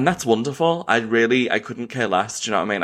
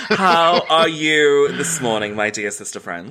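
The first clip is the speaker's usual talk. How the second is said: mock posh greeting; 5 semitones higher, slower than usual. Mock-formal greeting to co-host.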